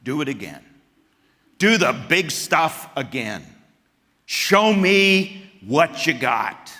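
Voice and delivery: building to a loud, slow taunt; mocking demand. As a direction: taunt God to repeat it. Elijah's prayer for an encore mocked.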